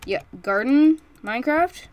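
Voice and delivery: loud, high excited call. Real, not acted. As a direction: burst out excitedly. Excited exclamation.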